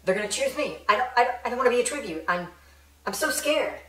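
fast, rising panicked pleading; panicking. Acted. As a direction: spiral into frightened panic. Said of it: "Prim is panicking".

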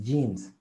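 "jeans" begun with a Spanish Y sound. Shown as a demonstration. Teacher showing the class, "jeans" with a Y sound. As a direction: start "jeans" on a strong Y. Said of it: "con la Y".

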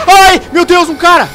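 high, loud startled shriek; startled scream. Real, not acted. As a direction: shriek at a jump scare. Sudden jump scare.

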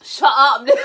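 snapped loud shut up at sibling; yelling. Real, not acted. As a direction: yell it at the intruder. Yells at sibling interrupting filming.

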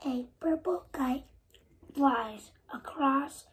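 breathy whisper, word by word; whispered reading. Real, not acted. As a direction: read the page in a whisper. Child reads book pages in whisper.

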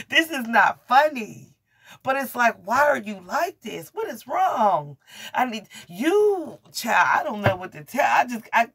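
high, loud, helpless laughter breaking through words; can't hold it together, laughing half-crying; laughing in disbelief. Real, not acted. Overwhelmed by her own reading.

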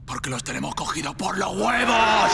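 rising to a loud rallying shout. Acted. Arenga de motín, clímax. (grito de arenga)

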